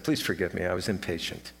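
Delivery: a touch of soft, sheepish apology; meek apology. Retold or imitated. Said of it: "I called her back and said".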